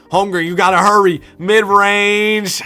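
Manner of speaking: loud, high, fast urging; urgent yell. Real, not acted. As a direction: push him to shoot before the clock runs out. Urgent late shot clock.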